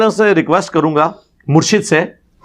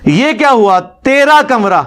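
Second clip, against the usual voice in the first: laughing mock echo; 5 semitones higher, slower than usual. Real, not acted. Second man echoes the taunt, laughing.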